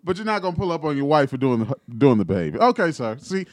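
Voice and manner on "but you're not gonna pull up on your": mock scolding. Real, not acted. Scolding the husband.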